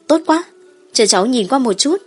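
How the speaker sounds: delighted and eager to look; excited girl. Acted. Girl delighted at choosing land.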